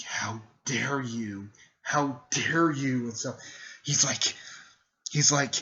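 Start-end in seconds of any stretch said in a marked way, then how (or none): 0.1-3.1 slow, drawn-out mock outrage; indignant and heavily drawn out; pissed off. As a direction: stretch each word out in acted anger. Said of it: "Naruto gets pissed off".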